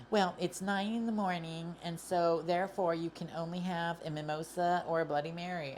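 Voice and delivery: lightly voiced snooty attendant; a hint of a prim staffer laying down rules; mock lounge staff. Mimicking the attendant who limits her drinks, lightly snooty. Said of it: "and then being like".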